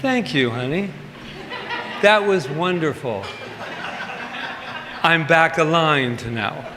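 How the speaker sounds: lightly sweet, smiling thanks; sweet thank you. Shown as a demonstration. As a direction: play the calm spiritual spouse. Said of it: "you are able to say".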